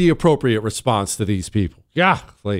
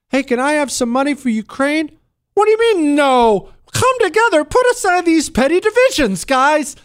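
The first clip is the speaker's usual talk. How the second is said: much higher, whining and begging in a silly put-on voice; mock whiny plea; 13 semitones higher than usual. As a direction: beg for money in a squeaky mock politician voice. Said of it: "they talk like this".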